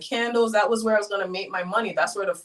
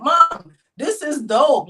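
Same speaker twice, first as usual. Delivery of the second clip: put-on a child's excited, loud "Mom"; mock the kids cheering about the place; imitating excited kids; 5 semitones higher, 6 dB louder, much slower than usual. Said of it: "the kids would look at me and like".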